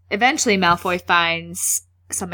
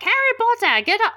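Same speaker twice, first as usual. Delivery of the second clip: higher-pitched mock scolding; McGonagall; 14 semitones higher, much faster than usual. McGonagall orders Harry off his broom, mock scolding. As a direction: call him out like a stern teacher. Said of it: "Actually, she has a Scottish accent".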